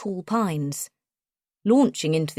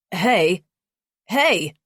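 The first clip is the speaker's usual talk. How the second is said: sharp, slightly louder "Hey! Hey!"; snapping; 3 dB louder than usual. A narrator's reading. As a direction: snap at him to stop. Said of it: "he snaps at Wolf".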